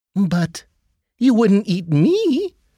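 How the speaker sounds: high, squeaky little mouse voice. A mouse answers the hungry snake it freed from a rock, squeaking. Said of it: "squeaked the mouse".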